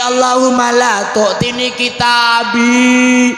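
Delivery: wailed, half-chanted supplication; tearful praying child. Acted. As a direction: beg like a frightened child in prayer. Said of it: "anak kecil ini wudu nangis".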